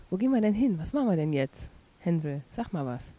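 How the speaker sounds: loud and furious; angry. Acted. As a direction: shout it out in a rage. Furious at mother, door slam.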